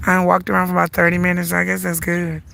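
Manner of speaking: stuffy, congested voice. Real, not acted. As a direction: talk through congestion. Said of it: "I can barely talk".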